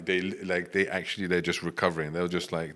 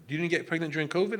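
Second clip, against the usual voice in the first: high-pitched puzzled question; incredulous questioning; 9 semitones higher than usual. Retold or imitated. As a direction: play a friend who can't believe it. Retold friends puzzled by his answer.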